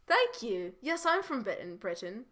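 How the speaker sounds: attempted British accent, tailing off. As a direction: answer as Holly in a put-on British accent. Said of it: "in my British accent".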